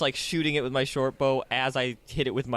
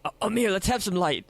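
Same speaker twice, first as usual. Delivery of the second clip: mildly nervous; 7 semitones higher than usual. Acted. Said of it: "Octavius is getting a little nervous".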